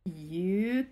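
one word at a time, with pauses; clipped single words, each one alone; staccato. Shown as a demonstration. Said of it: "And the moral of the story is".

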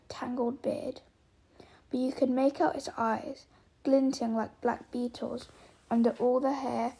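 dramatic storyteller narration; story narration. A narrator's reading. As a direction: build the suspense as you read. Reads a story aloud.

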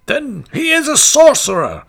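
high, loud frightened townsfolk cry; a crowd crying out in fear; alarmed cry. A narrator's reading. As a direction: shriek it out in alarm. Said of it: "cried the citizens with one voice".

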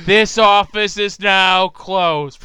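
Roz impression. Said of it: "That sounds like Roz from Monsters, Inc".

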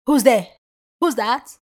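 loud, forceful demand at the door; aggressive. Shown as a demonstration. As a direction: shout it like a challenge. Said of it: "aggressiveness or whatever. Different levels".

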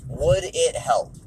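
slow, every word given weight; slow, pointed "Would it help?" with "Would" stressed; slow and weighty. Shown as a demonstration. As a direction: let the question sink in slowly. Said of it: "W I H".

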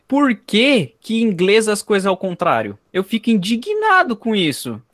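protesto indignado com tom mais agudo. Real, not acted. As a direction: alongue as palavras, indignado e inconformado. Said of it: "eu tenho uma indignação". (indignação arrastada, voz subindo)

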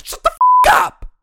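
shrieking high yell at full volume; screaming outburst. Real, not acted. Fan hearing she'll fly in for the game, screaming outburst. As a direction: explode in disbelief. Explodes after the rumour.

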